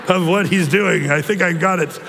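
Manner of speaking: put-on joking German accent, picked up after a laugh; Klaus Schwab impression. Pastor pretending the brain link is working, mock German accent. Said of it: "I shouldn't do my picture".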